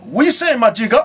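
high mock greeting to the mother; lightly voiced cheeky caller; playing someone greeting his great grandmother with the word; calling your mother. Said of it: "you go call your mother".

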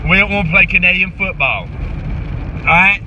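lightly voiced football coach firing up the team; halftime pep speech. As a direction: coach hyping up his players at halftime. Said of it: "Here it goes".

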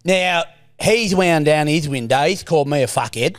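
Stephen's voice. Acted. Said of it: "it's Stephen's voice".

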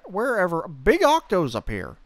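big octos in a steady high fish voice; big octos said evenly, no push; Fishman voice. Acted. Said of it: "the Fishman voice".

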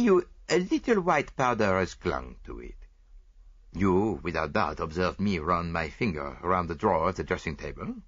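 lightly voiced Belgian detective; a hint of a French-accented Poirot; Hercule Poirot. Poirot speaks in story.

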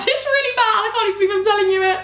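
laughing at her own weird faces; embarrassed laughing. Real, not acted. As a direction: giggle it out, embarrassed. Embarrassed confession about faces.

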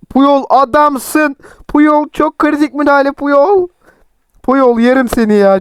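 high, slow gushing praise; excited praise. Real, not acted. Cheering Puyol's tackle, high gushing praise. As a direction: cheer the defender on.

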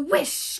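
loud whooshing wind noise; wind whish. Acted. Imitating the wind.

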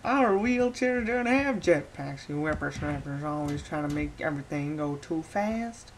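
put-on slow, creaky old-timer scolding; a lightly voiced old man complaining. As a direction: lecture the young ones like a grumpy old man. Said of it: "speak like an old guy".

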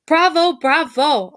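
slow, loud, high bravos; grand, stretched-out congratulation; exultant cheer. A narrator's reading. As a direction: applaud the stars with a drawn-out shout. Teacher applauding the young actors.

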